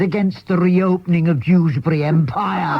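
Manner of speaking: can't hold the giggle on the punchline; lightly mournful Bob breaking into a laugh. Retold or imitated.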